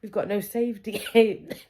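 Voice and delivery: high, fretful inner voice; mock panic. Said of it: "I'm sitting there going".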